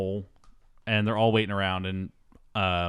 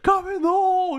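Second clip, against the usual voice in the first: high, loud mock yell; hammed-up frantic call to a friend; Rick; 5 dB louder than usual. Rick calling his friend to the manhole, mock frantic shout. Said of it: "Rick's like".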